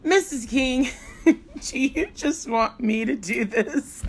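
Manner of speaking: put-on playful kid voice through a laugh; imitating a kid. Teacher quoting a cheeky student with a laugh. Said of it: "some awesome kid says".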